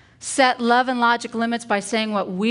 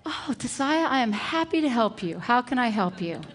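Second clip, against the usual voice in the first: acted delighted teacher, mildly gushing; happy to help; 3 semitones higher than usual. Teacher rewards child with eager helpfulness.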